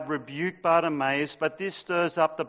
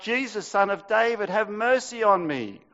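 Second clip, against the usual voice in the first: mock shout; 5 semitones higher, 3 dB louder than usual. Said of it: "he began to shout".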